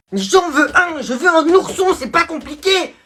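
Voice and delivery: high, loud whiny demand; spoiled whining. Acted. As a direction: whine like a child who always gets his way. Spoiled son whines to father.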